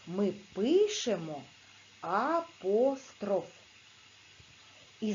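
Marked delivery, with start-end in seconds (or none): 2.0-3.5 апостроф slowed and given weight; teacher underlines the rule word; stressed key word. Shown as a demonstration. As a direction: lean on апостроф slowly. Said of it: "зверніть увагу".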